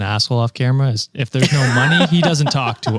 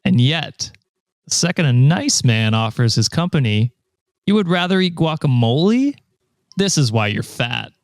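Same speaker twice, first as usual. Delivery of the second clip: nasal smug neckbeard. Acted. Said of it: "Let him find his own neckbeard voice".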